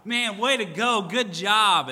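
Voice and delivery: high, loud, gushing congratulations, imitated; excited praise. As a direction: cheer him on like a thrilled teammate. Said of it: "And he's all excited about".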